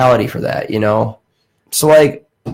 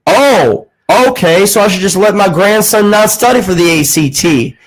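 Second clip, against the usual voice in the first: indignant old Southern grandfather, mimicked high; mock-outraged Southern caller; sarcastic Southern protest in a raised pitch; Southern accent; 6 semitones higher than usual. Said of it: "he had a southern accent".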